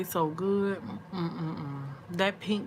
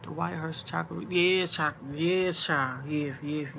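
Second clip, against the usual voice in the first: ordinary talk, nothing marked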